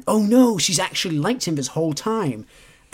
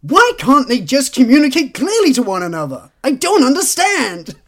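mock exasperation; 8 semitones higher, 8 dB louder than usual. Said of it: "put down Jane Austen and go".

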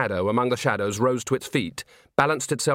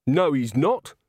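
defiant contradiction; 4 semitones higher, slower than usual. A narrator's reading. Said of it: "She'd said it merely to wipe the sneer".

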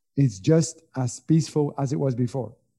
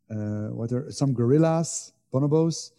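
searching for words in another language; pausing to find the English word; translating in head; 3 semitones lower than usual. Real, not acted. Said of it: "I don't know the word in English".

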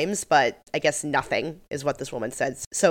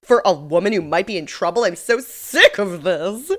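whiny complaint. Retold or imitated. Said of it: "They're like".

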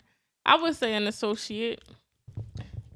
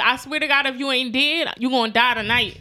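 threatening; 5 dB louder than usual. Retold or imitated. Acted threatening text.

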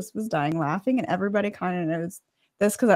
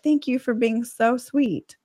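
mock sweet; 3 semitones higher, slower than usual. Reading her sugary reply to creep.

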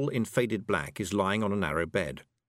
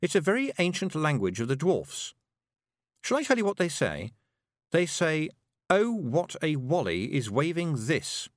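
needling through a smile, pitched up; nastily sweet; 5 semitones higher than usual. Acted. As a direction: translate with smug, mocking relish. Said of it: "smiling nastily at Zack Zack".

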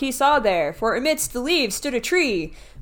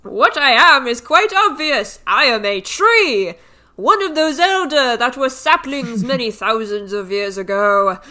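tree voice; 2 semitones higher, 6 dB louder than usual. Acted. Reads the tree's grand speech.

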